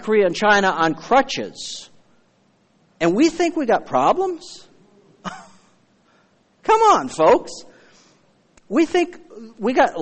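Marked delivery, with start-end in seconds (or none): 3.0-4.7 high incredulous rise; mock disbelief, pitched way up. Real, not acted. Preacher mocking complaint. 5.0-7.1 laughing, high come on. Real, not acted. Preacher laughing at congregation.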